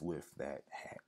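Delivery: worn-out, losing voice; hoarse voice. Real, not acted. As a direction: voice going hoarse. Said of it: "I'm losing my voice".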